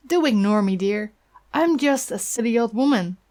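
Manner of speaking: lightly voiced old woman, chatty and concerned; a hint of a kindly busybody leaning in; gossipy old neighbour. Neighbour gossiping to the boy, a lightly voiced old woman.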